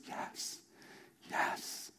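breathless soft whisper; whispered yes. Pretend. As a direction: barely breathe the word.

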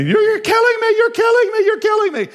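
put-on very high, piercing kid's scream; all-out imitation of a screaming son; retold child screaming. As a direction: shriek it loudly like a child in pain. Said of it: "He starts screaming".

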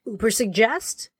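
slow, contrasting the two names; differing gravitas. Retold or imitated. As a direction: imitate someone weighing one name against the other. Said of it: "just a different, uh, gravitas".

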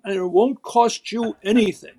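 put-on a light upper-class accent with "cost" leaned on sarcastically; rich sarcasm. Retelling Roosevelt's jab at his opponents, with rich sarcasm. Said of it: "he would say it like that with so s-, rich sarcasm".

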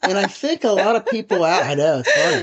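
chuckling through the words; laughing. Real, not acted. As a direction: laugh while you speak. Laughing at the joke just told.

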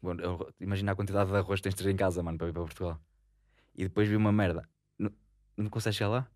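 a bit tipsy while talking. Real, not acted. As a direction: speak like you've had a few drinks. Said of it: "estou bêbado já".

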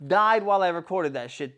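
high, loud exasperated outburst; worked-up storyteller's rant; retold seething rage. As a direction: relive the fury at full volume. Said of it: "I'm seething, bro".

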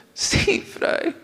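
soft tearful whisper; whispered reply. Retold or imitated. Sheila answering the priest in a whisper. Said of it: "Me dice".

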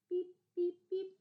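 high, hammy supermarket cashier beeps. Pretend. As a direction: play a bored checkout clerk scanning items. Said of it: "Really great impression of a cashier".

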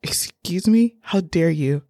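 indignant. Retold or imitated. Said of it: "I said".

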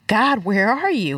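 slow, understated plea to God; retold heart cry. Speaker retells crying out to God, pleading. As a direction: plead with drawn-out questions, gently retold. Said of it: "this was this heart cry of".

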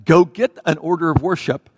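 mock commanding, firm; direct command. Wife's hint to husband spelled out, mock direct command. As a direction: order it as a wife's unspoken command. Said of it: "never gives me a direct command".

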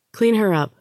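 a curt bark of an order; snapping. A narrator's reading. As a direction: snap the order at her. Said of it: "she snapped".

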